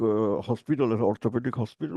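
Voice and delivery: usual speaking voice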